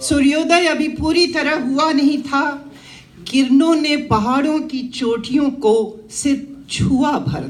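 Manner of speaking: measured verse recitation with pauses between phrases; declaimed Hindi poem; poetry recital. Acted. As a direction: recite to a gathering, lifting repeated lines. Recites her own poem.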